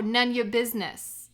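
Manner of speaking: laughing through the punchline. Acted. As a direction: say it while cracking up. Realizing she was pranked.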